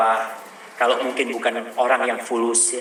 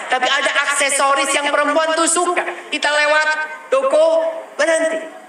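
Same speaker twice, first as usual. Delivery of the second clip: bersemangat; 11 semitones higher than usual. Real, not acted. Semangat menasihati jamaah.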